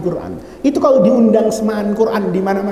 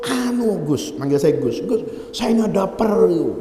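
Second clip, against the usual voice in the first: shy; 4 dB quieter than usual. Retold or imitated. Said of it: "tapi malu". (malu-malu, suara pelan)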